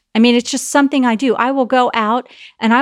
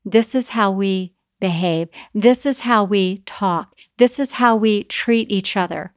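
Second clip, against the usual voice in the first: calm parent. Retold or imitated. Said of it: "to tell them".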